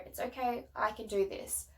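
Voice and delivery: soft, hushed words to herself while breathing it out; calming self-talk. Shown as a demonstration. New mum calming herself while her baby cries, whispered. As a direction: whisper it to yourself to stay calm. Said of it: "just breathe it out and just go".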